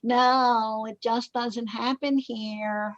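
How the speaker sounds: a touch of whining, slow on the second half; lightly mock a resistant employee; mild whiny voice. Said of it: "You see Anne Marie's whiny voice way better than mine".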